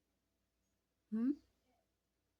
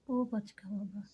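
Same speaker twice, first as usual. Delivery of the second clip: whisper; 4 dB quieter, slower than usual. Real, not acted. Whispered pet name.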